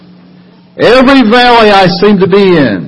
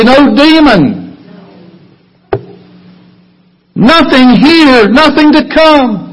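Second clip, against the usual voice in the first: building preaching fervor; 5 semitones higher than usual. Acted. Sermon builds to climax.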